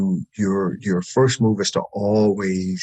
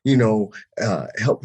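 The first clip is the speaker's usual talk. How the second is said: defensive denial; 5 semitones higher than usual. Retold or imitated. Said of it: "I was like".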